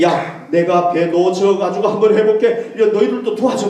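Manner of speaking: loud mock call for help; playfully rally the crew, loudly; mock hurried Jesus. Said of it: "막 이런 게 아니에요".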